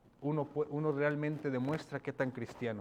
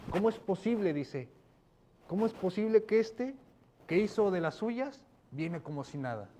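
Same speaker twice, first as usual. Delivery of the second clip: incredulous, higher-pitched outrage; indignant older brother; 5 semitones higher than usual. Acted. Older brother outraged at the prodigal's welcome, indignant. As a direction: voice the older brother's offended disbelief. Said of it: "El hermano se indigna".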